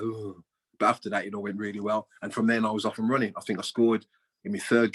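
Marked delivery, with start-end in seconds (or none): 0.0-0.4 crowd groan. Retold or imitated. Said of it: "the crowd was a little bit like".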